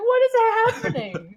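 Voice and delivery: put-on very high voice, laughing through tears, wailing. Retelling a dubber reacting to game cutscenes: imitating someone laughing and crying. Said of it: "laughing and crying".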